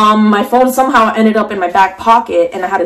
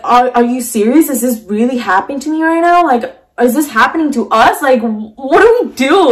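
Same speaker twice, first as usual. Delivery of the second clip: rising, higher-pitched panicked questions; shaken disbelief; 4 semitones higher than usual. Retold or imitated. Woman retelling her questions during the carjacking, mild panic. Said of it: "I was just shaking".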